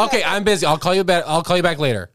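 Nikki. Pretend. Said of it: "I'll be Nikki".

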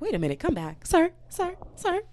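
high, loud shout after him, rushing; calling after him. Retold or imitated. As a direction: yell sir sir to bring the guy back. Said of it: "And I was like".

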